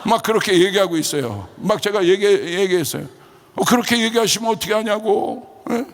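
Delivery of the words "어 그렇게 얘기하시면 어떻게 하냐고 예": high-pitched indignant complaint; retold angry protest. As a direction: re-enact scolding someone, voice pitched up. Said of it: "왜 저한테 화를 내세요". (화난 듯 높게 항의하는 재연)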